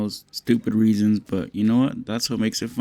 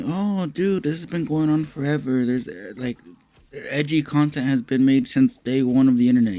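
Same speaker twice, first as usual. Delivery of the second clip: higher, lightly mocking know-it-all voice; imagined know-it-all commenter; 3 semitones higher than usual. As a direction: play the know-it-all fan who's seen it all. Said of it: "but before you tell me".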